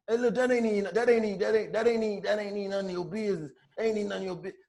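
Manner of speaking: lightly voiced soft-spoken tough talk; soft tough guy. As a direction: imitate a mild-voiced guy warning you off. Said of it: "this how this nigga talking to me".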